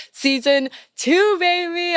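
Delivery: excited. Real, not acted. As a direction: shout out the season number with joy. Announcing season two launch.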